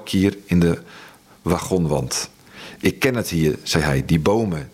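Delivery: measured, grave storytelling read; story narration. A narrator's reading. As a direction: read it like a dark wartime novel. Reads his novel aloud.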